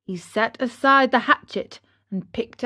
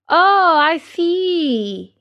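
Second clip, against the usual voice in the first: put-on slow, uneasy chuckle of an old carpenter; a hint of a shaken old man laughing it off; nervous laugh; 7 semitones higher, 4 dB louder, much slower than usual. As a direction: laugh off the fright, drawn out. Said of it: "laughing and scratching his wig".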